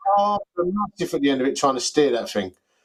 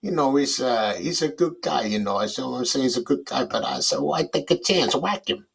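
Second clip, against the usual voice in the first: a hushed wise guy ordering a hit; Robert De Niro; 4 semitones lower than usual. Shown as a demonstration. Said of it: "you need to say something like".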